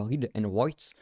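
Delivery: English words in a clumsy French accent. Real, not acted. Glossing the R W option for viewers, French-accented English. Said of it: "super mon accent anglais".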